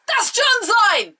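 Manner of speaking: high, slow, outraged exclamation; indignant outburst. Real, not acted. Fan protesting Penelope stole John's line, indignant and drawn out. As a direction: stretch it out like you've been personally wronged.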